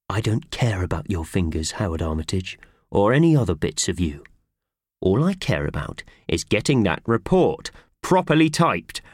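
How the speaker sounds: a hint of a cross boss laying down the law; lightly voiced stern boss. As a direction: boss threatening to fire Howard. Boss's threatening speech.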